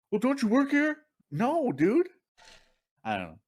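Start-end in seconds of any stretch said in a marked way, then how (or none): 0.1-1.0 high, insistent mock question; mimicked pushy customer. Customer mistaking a shopper for staff, mimicked insistence. 1.3-2.1 high-pitched, incredulous retort; mock exasperation. Shopper denying he works there, mock exasperation.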